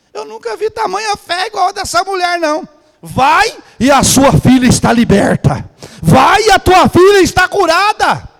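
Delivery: high, loud proclamation building to a shout; Jesus proclaiming loudly. Acted. Jesus declaring to the foreign woman, loud and triumphant. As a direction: cry it out as a triumphant verdict.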